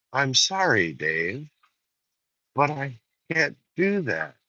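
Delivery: quiet, slow machine refusal; Hal tone. Shown as a demonstration. Refusing a friend asking to borrow money, in Hal's tone. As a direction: say it like a cool computer, lightly. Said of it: "reply in that tone".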